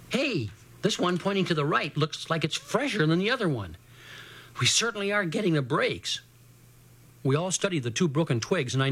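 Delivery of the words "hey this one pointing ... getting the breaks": put-on pitched up slightly, mildly excited boy; a touch of gasping discovery. Portry telling friends of the fresher twig, mildly gasping. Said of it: "he let out a gasp".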